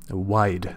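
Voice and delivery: "wide" ending clearly in a voiced d; correct pronunciation. Shown as a demonstration. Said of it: "not white, sorry".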